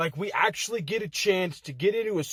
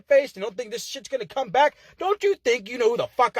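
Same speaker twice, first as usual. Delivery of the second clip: yelled; 6 semitones higher than usual. Real, not acted. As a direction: bark it at him. Yelling insult promo at rival.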